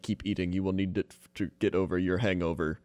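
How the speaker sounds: low, flat robot voice. Retold or imitated. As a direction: speak like a cold machine. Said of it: "He talks like a robot".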